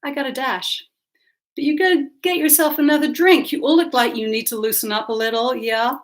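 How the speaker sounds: put-on breezy LA socialite accent; Anglo Los Angeles accent. Hostess leaves guests to drink, Anglo LA accent. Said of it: "in her Anglo Los Angeles accent".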